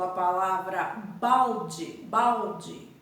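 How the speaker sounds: balde drawn out slowly with a falling end; teacher spelling out a word for pupils; slow teacher demo. Shown as a demonstration. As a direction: say a palavra balde slowly for the class. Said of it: "Por exemplo".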